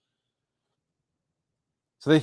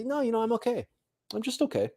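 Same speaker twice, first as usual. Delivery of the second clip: content okay; 8 semitones higher, 6 dB quieter, faster than usual. Retold or imitated. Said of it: "No, you say".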